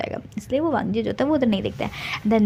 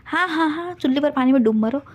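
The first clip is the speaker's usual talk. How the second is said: angry; 4 semitones higher than usual. Acted. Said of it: "गुस्से में बोलता है".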